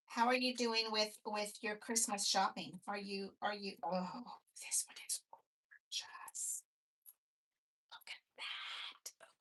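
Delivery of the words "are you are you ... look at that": whispered all the way through, soft and hushed. Chatting to the listener while opening item number seven, whispering. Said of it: "I'm sorry, I'm whispering".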